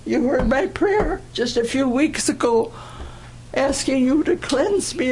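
retold plea, pitch climbing as it goes; pleading prayer. Praying to Father in the coal bin after cursing, pleading. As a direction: beg forgiveness earnestly, voice lifting. Retells her desperate prayer for forgiveness.

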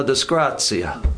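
disgrazia said slowly, in Italian; Italian word. Shown as a demonstration. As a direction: say disgrazia the Italian way, slow and low. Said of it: "In Italiano".

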